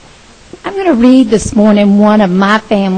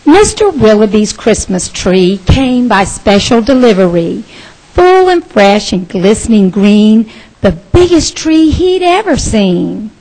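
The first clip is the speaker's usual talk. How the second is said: lively storybook read-aloud with voiced characters; children's story time narration. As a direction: read the rhyme to the kids with bounce. Reading picture book to children.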